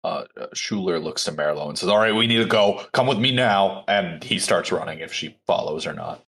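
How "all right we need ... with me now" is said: raised, pressing order to follow; slightly heightened in-character urgency; urgent command. Acted. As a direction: urge them to move now. Character urges another to flee.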